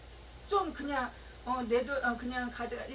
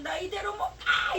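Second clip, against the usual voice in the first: a mild mock cry of protest; imitating the woman's outburst, only slightly raised; retold shout; 5 semitones higher, 4 dB louder than usual. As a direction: call it out a little louder, half-acted. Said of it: "막 소리 지르고".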